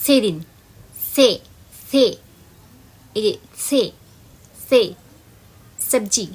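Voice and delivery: সেদিন and সবজি with the tongue touching the teeth; demonstrating the problematic dental s; teacher shows the wrong s; problem s sound. Shown as a demonstration. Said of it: "স এর উচ্চারণটা সমস্যাজনক".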